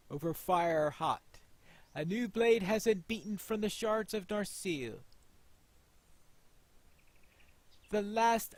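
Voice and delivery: proud, steady announcement; lightly voiced smith. Player voicing the smith announcing the reforged blade, proud. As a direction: declare the work like a proud craftsman.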